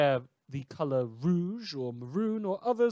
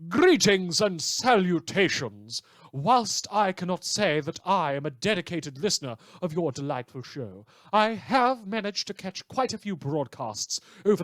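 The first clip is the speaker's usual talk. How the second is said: pompous letter writer; 3 semitones higher than usual. Acted. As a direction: read it like a self-important tinker, proud of his drones. Reads a pompous tinker's letter.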